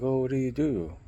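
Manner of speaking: mock Latina accent. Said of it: "she had an accent".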